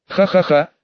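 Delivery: clumsy villain laugh, ha-ha-ha; evil laugh. Pretend. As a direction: try a sinister cackle and miss. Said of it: "Над зловещим смехом надо будет ещё поработать".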